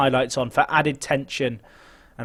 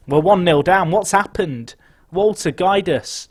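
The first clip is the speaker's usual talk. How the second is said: rattled outcry; 3 semitones higher, 5 dB louder than usual. Real, not acted. Conceding a goal in the final.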